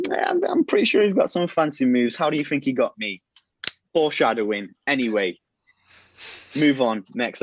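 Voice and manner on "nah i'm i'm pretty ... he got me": much higher, playful voice; teasing wife. Retold or imitated. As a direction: tease him playfully, way up high. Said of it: "And she's like".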